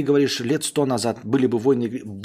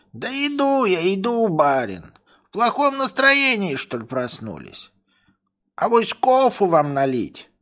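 high, slow dopey voice; dim-witted servant; 9 semitones higher, 4 dB louder than usual. Acted. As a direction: play the lazy servant. Servant answering master.

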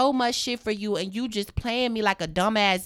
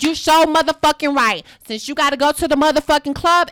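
mock angry yell; 4 semitones higher, 5 dB louder than usual. Angry sister telling off sibling.

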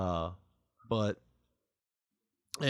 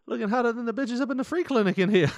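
rapper hype voice; 11 semitones higher, 4 dB louder than usual. Retold or imitated. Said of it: "he goes".

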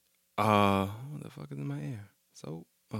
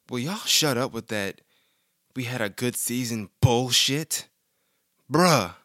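loser voice; 3 semitones higher, 3 dB louder, slower than usual. Retold or imitated. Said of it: "I'm reading my loser voice".

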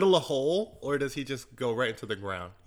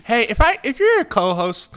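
shouted, much higher mock complaint; loud mock rant; 4 semitones higher, 9 dB louder than usual. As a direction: yell it in mock outrage. Mock outburst at co-host.

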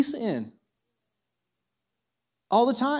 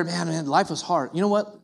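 mock drinking buddy; 4 semitones lower, 4 dB quieter than usual. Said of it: "they walk in and they're".

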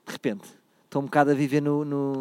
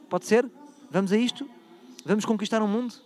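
rallying excitement; 6 semitones higher, 4 dB louder than usual. Real, not acted. Rallying listeners at the end.

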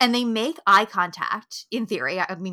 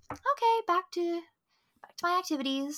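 casual shrug; 8 semitones higher, 5 dB quieter than usual. Retold or imitated. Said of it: "he's like".

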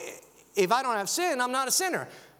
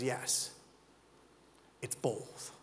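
soft answer; 9 semitones lower, 10 dB quieter, much slower than usual. Acted. Jesus answers softly.

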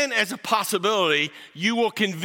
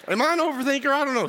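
mock overthinker; 9 semitones higher, faster than usual. Mocking an overthinker's inner voice.

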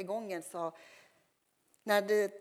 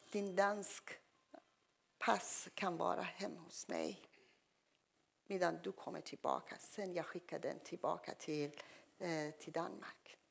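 hushed offer; 5 dB quieter than usual. Retold or imitated. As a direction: keep it under your breath, conspiratorial. Woman's secret offer, retold.

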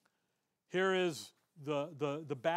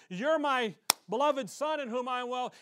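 Father to the Son; 4 semitones higher, 5 dB louder than usual. Retold or imitated. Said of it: "does he say to the Son".

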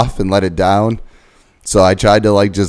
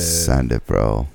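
low dude-bro voice; frat bro; 8 semitones lower, much slower than usual. Pretend. Mocking bro catchphrase.

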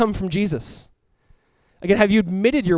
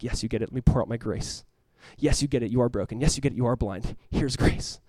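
lower, softer voice for God; gentle divine reassurance; 5 semitones lower, 5 dB quieter than usual. Acted. God answering the humble with grace, gently reassuring. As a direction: quietly grant mercy as God.

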